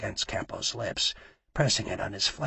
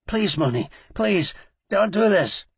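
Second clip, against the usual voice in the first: begging; 10 semitones higher, 8 dB louder than usual. A narrator's reading. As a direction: beg for your life, voice rising high. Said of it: "Campo begged".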